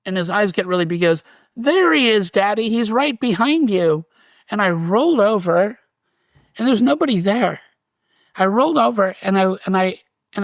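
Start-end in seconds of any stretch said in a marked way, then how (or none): 1.5-4.0 put-on higher, urgent little boy's voice; small child. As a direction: warn dad like a wide-eyed toddler. Frightened toddler points at ghost.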